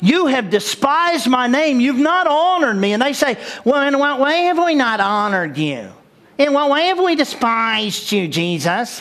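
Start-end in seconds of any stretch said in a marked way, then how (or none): 3.6-9.0 grating, annoying, irritating imitated voice. A preacher acts out people answering back, in an irritating put-on voice. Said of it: "Isn't that the most irritating voice?".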